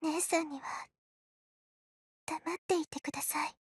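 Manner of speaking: soft, strained and hushed. Acted. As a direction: hold it back, barely audible. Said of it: "she says in a strained voice".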